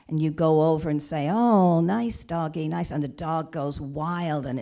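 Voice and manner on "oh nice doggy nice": loud, cheerful pet-the-dog coo; mock friendly. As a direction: greet a strange dog brightly. Approaching a dog at fence.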